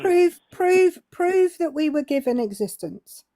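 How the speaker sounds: interrupting with a repeated demand; insistent challenge. Real, not acted. Challenges the man to prove it.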